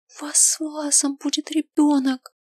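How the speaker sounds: a high, thrilled whisper; excited whisper. A narrator's reading. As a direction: exclaim it under your breath. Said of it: "восклицает тихо-тихо".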